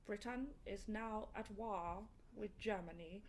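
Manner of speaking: put-on slow, overdone Churchill that slides into a generic African accent; a student botching Churchill in class, slow and wobbly-accented; bad Churchill impression. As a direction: ham up a schoolboy's Churchill speech. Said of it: "You're going into generic African".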